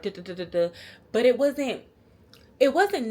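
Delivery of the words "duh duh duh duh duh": mock rattling car noise, duh duh; mild imitation of an engine knocking. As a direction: imitate the car's knocking rhythm. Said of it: "because it was like".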